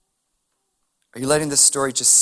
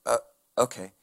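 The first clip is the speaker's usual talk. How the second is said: low, soft, unbothered okay; unimpressed Jesus; 5 semitones lower, 7 dB quieter than usual. Retold or imitated. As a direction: brush it off softly, moving on. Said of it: "he, he's like".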